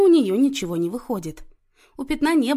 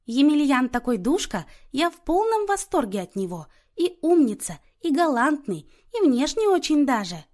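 high-pitched, gushing chatter; chirping; 6 semitones higher, 4 dB louder than usual. A narrator's reading. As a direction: chirp delighted praise of a young man. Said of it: "принялась чирикать".

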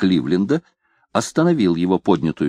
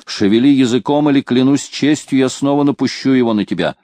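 mock bullying shout; 5 semitones higher, 4 dB louder than usual. Банс подгоняет разносчика.

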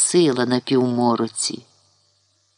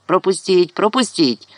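mild raised-pitch call; 5 semitones higher, 3 dB louder than usual. A narrator's reading. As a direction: call lightly to clear a path. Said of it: "покрикувала вона". (злегка покрикуючи)

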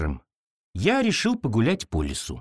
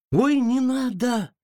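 scared plea; 12 semitones higher, slower than usual. Acted. Scared sister begs him stop.

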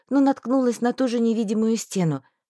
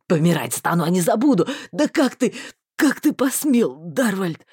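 desperate shouting; 4 semitones lower, 3 dB louder than usual. A narrator's reading. Marston screaming at his vanishing friend, desperate. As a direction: lower male voice, loud desperate cries. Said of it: "закричал отчаянно".

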